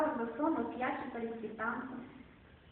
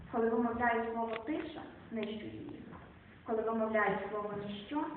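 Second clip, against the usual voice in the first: poetry reading. Acted. Recites Szymborska poem.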